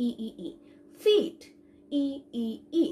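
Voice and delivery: ই as a clear 'ee', as in ফিট; model pronunciation. Shown as a demonstration. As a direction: drill ই in separate beats around ফিট. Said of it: "ই উচ্চারণ করবো". (ফিট-এর ই আলাদা করে উচ্চারণ)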